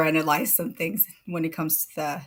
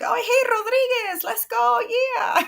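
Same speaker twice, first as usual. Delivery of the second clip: high, loud eager shout; excited Spanish bursting; 4 dB louder than usual. Pretend. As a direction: greet a friend with a burst of excitement. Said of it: "bursting out in my Spanish".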